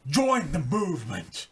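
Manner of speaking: preacher voice. Pretend. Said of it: "In your best preacher voice".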